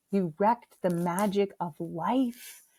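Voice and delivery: lightly mocked melodramatic child, drawn out; dramatic kid. Mother imitating her heartbroken son after the Santa reveal, melodramatic. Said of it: "he was always a dramatic kid".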